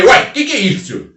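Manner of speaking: high, loud amazed exclamation; astonished cry. Retold or imitated. Seeing the pig throw up money, loud amazement. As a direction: gasp it out in disbelief.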